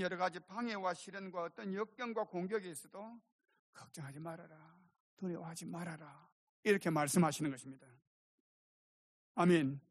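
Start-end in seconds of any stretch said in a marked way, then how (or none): 3.7-6.3 very soft, soothing voice; calm them gently, almost under the breath; soft reassurance. Retold or imitated. The Lord to believers facing trials, softly reassuring.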